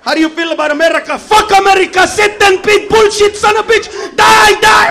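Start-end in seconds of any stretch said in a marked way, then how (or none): 1.2-4.9 higher, shouted angry rant; furious fanatic yelling; mock rant. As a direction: rage at America, hammed up. Acted angry foreigner ranting.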